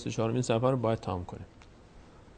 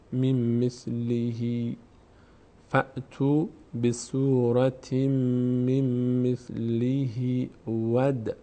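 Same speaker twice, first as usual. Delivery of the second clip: slow, joined tajweed recitation; measured syllables with held nasals and vowels; Quran recitation; much slower than usual. Shown as a demonstration. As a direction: recite slowly on an even note. Recites the phrase.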